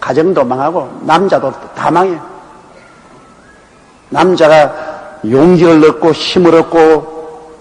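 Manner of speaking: ordinary talk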